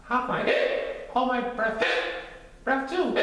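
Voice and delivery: high, small cub voice; high little bear voice. Acted. Little Bear asks worried.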